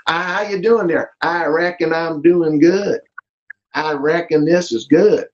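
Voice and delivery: lightly imitated Southern good old boy; Southern accent. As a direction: put on a folksy Southern US accent. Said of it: "I love it with the Southern guys".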